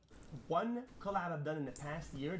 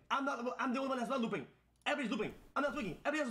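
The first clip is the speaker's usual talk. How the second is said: laughing; 9 semitones higher, much faster than usual. Real, not acted. Laughing, insisting he's fine.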